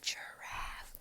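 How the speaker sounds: breathy, very soft "giraffe"; whisper. Shown as a demonstration. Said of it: "you whisper it".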